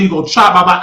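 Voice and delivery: a hint of the furious customer; mock angry yell. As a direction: bark it like the angry dude. Retelling dude cussing him out.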